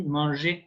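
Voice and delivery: "manger" as mon-zhay, ending on "ay"; French pronunciation model. Shown as a demonstration. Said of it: "Can you pronounce after me?".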